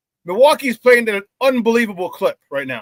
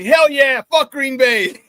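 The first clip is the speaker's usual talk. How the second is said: mild mock yell, a bit louder and laughing; retold fan yell; 4 semitones higher, 4 dB louder, slower than usual. Retelling a festival stranger's cheer, mild mock yell. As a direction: toss it off like a passing rowdy fan. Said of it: "Some dude yells at me".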